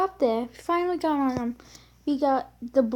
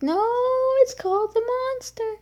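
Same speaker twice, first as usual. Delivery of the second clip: higher, firm counter-correction; insistent correction; 11 semitones higher, 3 dB louder than usual. Retold or imitated. Kid correcting mom, insistent high retort. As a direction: push back on mom's word. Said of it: "I'm like".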